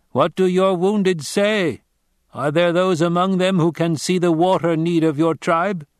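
a grave stranger giving a warning; Fremen warrior. Acted. Narrator voices the Fremen.

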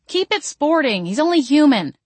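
high-pitched scolding call; exclaimed protest. A narrator's reading. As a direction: call out a reprimand to the fighters. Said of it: "I exclaimed".

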